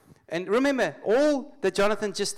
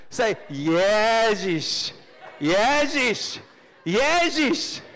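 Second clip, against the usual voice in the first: drawn-out shout climbing higher each time; building rallying shout; 6 semitones higher, 8 dB louder, much slower than usual. Acted. Preacher gets people to say the name, rising rallying shout. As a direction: lead the chant louder and higher.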